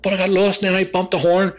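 high loud protesting mate; defensive Ronnie. Retold or imitated. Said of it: "He says".

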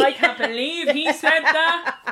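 slow words through laughter; giggling pretend disbelief; half-laughing scandalised aside; laughing mock outrage. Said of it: "record me being like".

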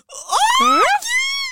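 high loud yelping laugh-cry; high yelping dog-like laugh. Retold or imitated. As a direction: let out a high yelp. Imitating a dog sound.

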